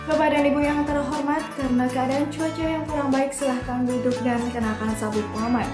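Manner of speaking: cabin PA announcement voice; flight attendant. Shown as a demonstration. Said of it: "announcement-nya kalau terjadi turbulence tuh kayak gini".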